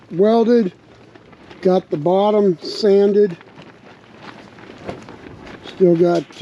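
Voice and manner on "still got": rough, hoarse bark. Real, not acted. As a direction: speak through a hoarse throat. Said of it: "don't mind my bark".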